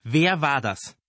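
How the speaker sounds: high, loud piercing call; piercing shout. A narrator's reading. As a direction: shout it from afar. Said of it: "zerriss ein spitzer Schrei die Stille".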